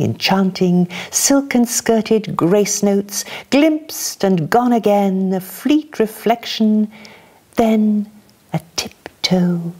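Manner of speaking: lilting, light poem reading; dance lightly through the lines; poetry reading. Acted. Reader offering a lighter poem to the audience, lilting reading.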